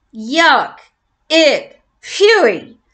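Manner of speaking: disgusted yell. Acted. George licked by the dog, yelling in disgust. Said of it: "George yelled".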